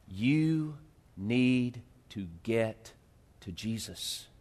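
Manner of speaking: soft and slow, pulling them close; hushed, intimate. Real, not acted. Pastor stopping the congregation to listen, hushed. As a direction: drop the voice and make them lean in. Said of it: "Don't take any more notes. Just listen".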